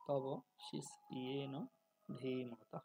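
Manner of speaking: শিষ্যেন ধীমতা with a clear y in shish-yena; Sanskrit pronunciation. Shown as a demonstration. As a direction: model তব শিষ্যেন ধীমতা word by word. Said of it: "সংস্কৃত নিয়ম অনুযায়ী উচ্চারণটা". (শিষ্যেন ধীমতা সংস্কৃত উচ্চারণে)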